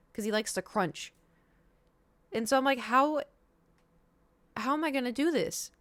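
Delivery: high, pleading disbelief; you can't see how this will ever work; exasperated worry. Retold or imitated. Asking the receptionist how to pill the cat, high and exasperated. Retelling panic about giving pill.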